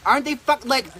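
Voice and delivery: excited. Real, not acted. Gushing over the servers.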